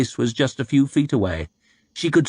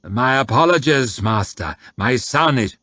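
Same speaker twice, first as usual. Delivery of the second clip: servile; 2 semitones higher than usual. Acted. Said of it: "bowed to the guard, smiling, scraping".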